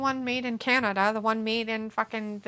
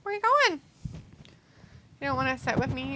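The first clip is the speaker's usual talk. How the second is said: pet talk; 4 semitones higher than usual. Real, not acted. Talking to the cat.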